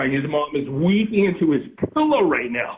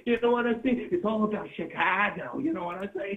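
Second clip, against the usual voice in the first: high whiny voice; 5 semitones higher, 4 dB quieter than usual. Acted.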